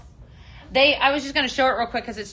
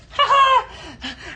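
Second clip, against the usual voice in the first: high laugh; 12 semitones higher, 5 dB louder than usual. Real, not acted. Laughing at the rooster.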